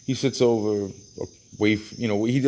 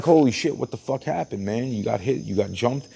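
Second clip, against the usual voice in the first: higher, startled holy shit, then questions; retold shock; 3 semitones higher than usual. Seeing the guy's swollen forehead, startled alarm. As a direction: gasp at the lump, then ask. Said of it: "I'm like".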